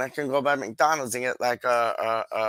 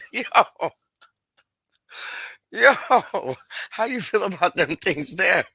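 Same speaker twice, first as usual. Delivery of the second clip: higher, mock-sly teasing voice; playful mock voice, lightly done; teasing put-on voice; 7 semitones higher, 4 dB louder than usual. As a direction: ham up the cheeky question to Doc.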